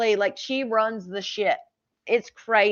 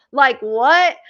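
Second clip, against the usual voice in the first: incredulous what; 3 semitones higher, 9 dB louder than usual. Real, not acted. Reacting to absurd bill.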